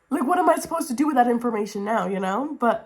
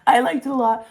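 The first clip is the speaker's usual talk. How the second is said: louder, punchier; emphatic; 3 semitones higher, 5 dB louder, faster than usual. Real, not acted. Reviewer insisting she enjoyed the sequel, emphatic. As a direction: say it with conviction.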